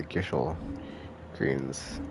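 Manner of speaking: Gysahl as GISH-ul before Greens; short i and SH in Gysahl; own old pronunciation. Shown as a demonstration. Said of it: "I'm pretty sure I pronounced it".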